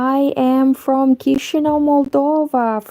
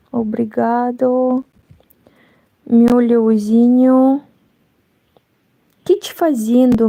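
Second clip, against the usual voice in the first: put-on Brazilian Portuguese accent. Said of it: "you can see that I can imitate some accents".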